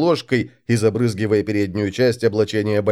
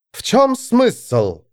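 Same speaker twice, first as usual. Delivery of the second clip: slow, higher grumbled question; grumble; 11 semitones higher, much slower than usual. A narrator's reading. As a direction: grumble it out slowly. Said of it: "проворчала Вигга".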